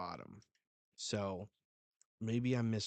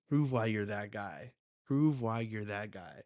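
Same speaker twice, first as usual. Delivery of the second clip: louder, punchy fan's challenge; urging him on; 5 dB louder than usual. Retold or imitated. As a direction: egg the hero on with force, twice over. Fan urging on his hero.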